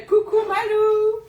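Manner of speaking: greeting through laughter; laughing. Real, not acted. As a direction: laugh while saying hello.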